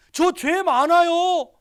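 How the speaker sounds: put-on high, loud and slow, a child's plea; confessing cry. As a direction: blurt it out high and drawn out. Sick niece confessing to pastor. (높고 크게 천천히 외치는 고백)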